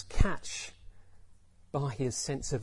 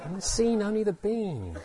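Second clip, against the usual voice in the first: amused puzzlement; 5 semitones higher than usual. Acted. Bewildered listener repeating the words.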